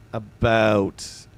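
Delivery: "about" drawn out with a clear ow; over-enunciated. Shown as a demonstration. Streamer tests the word for chat, "about" carefully sounded out. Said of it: "I over enunciate it".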